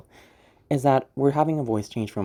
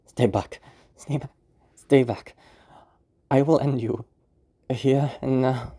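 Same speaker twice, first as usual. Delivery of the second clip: shaky bravado. Shown as a demonstration. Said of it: "switching back and forth".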